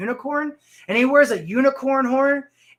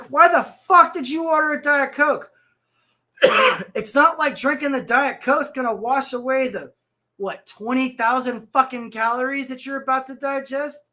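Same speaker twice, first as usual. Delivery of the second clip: mock angry rant at the customer, louder and higher; pissed off yelling; 4 semitones higher, 4 dB louder than usual. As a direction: snap at her in a half-acted rage. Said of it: "I was like".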